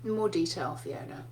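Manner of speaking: a hint of a patient old professor, low and soft. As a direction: gently nudge your student over your glasses. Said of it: "he would kind of go".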